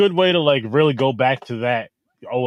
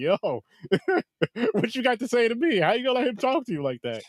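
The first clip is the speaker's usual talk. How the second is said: put-on very high laughter through words, cocky; 10 semitones higher, 5 dB quieter than usual. Imagining walking in to the principal after a fight, acting out laughing while talking. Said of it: "laughing like".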